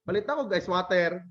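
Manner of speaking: acted Filipino shopper saying "water"; Filipino-accented "water" in a casual store request. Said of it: "how the Filipino people pronounce it".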